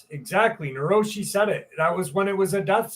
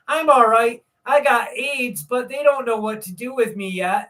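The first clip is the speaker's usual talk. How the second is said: lightly voiced kid, a bit higher; imitated little boy; 4 semitones higher than usual. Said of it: "he said it just like that".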